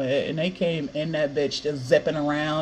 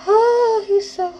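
excited squeal; 4 dB louder than usual. Real, not acted. Fan gushing about Levi, excited high squeal. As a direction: voice jumps way up, gushing.

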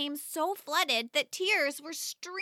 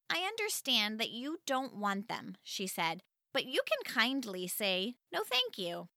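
softer, patient motherly voice; gentle correction; 4 semitones lower, 6 dB quieter than usual. Acted. Mom gently reminding her daughter of manners, soft and patient. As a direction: coax her kindly toward manners.

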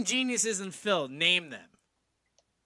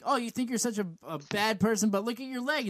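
put-on whiny high school girl; 4 semitones higher, faster than usual. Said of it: "sound like a whiny, a, a, a whiny high school girl".

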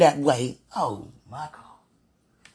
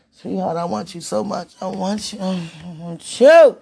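longing plea; 5 dB louder than usual. Real, not acted. Longing address, last line drawn out.

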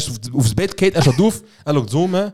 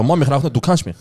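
mock pleading; 2 semitones higher than usual. Acts pleading innocence to mother.

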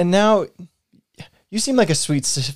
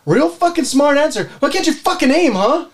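angry scolding; 6 semitones higher than usual. Acted. Acted quarrel, scolding roommate.

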